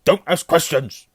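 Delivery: high, loud, slow-hammered order; snapping. A narrator's reading. Uncle cuts off nephew's question, snapping. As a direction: snap it at full volume. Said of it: "snapped his uncle".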